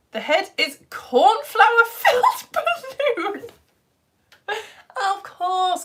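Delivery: high, loud, slow and cracking up; breaking into real laughter; incredulous laughter. Real, not acted. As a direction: read it out in delighted disbelief. Amused disbelief at viewer's comment.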